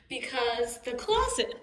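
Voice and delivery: hiccuping mid-sentence; words broken by a hiccup. Real, not acted. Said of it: "sorry, I have the hiccups".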